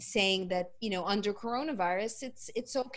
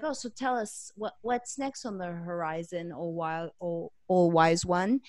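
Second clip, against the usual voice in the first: sarcastic; 2 semitones lower, 6 dB louder than usual. Retold or imitated. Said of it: "where he's being sarcastic with him".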